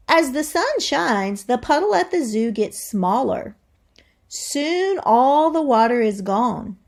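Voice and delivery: lively read-aloud to the class; expressive classroom read-aloud; reading to children. Acted. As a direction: read it like a storybook for kids. Teacher reads book aloud.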